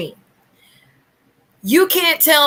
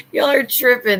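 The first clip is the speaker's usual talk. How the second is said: laughing it off; 2 semitones higher than usual. Real, not acted. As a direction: say "Y'all are tripping" through a laugh. Laughs off the haters.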